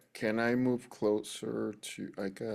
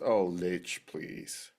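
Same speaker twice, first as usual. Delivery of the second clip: mock plea; 3 semitones lower than usual. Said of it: "Goblin just says".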